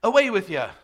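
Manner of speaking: dismissive attempt at a British accent, slipping into Irish; snobby British accent. Shown as a demonstration. Showing a congregation the wrong reading, mock snobby British accent. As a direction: wave them off in a hammed-up snobby British accent. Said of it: "dismissive and snobby, like, British".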